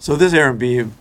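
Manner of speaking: retake, frozen lips; fumbling again through numb lips; cold lips. Real, not acted. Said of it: "my lips are frozen".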